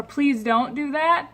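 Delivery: slow, sweet request; courteous plea to a guest; polite and smiling. Shown as a demonstration. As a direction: ask nicely with a smile. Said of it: "if you're smiling to someone and saying".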